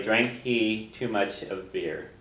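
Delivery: Drank he too much of beer, said slowly word by word; teacher explains the literal word order; slow literal gloss. Shown as a demonstration. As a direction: give the word-for-word translation slowly. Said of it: "So literally".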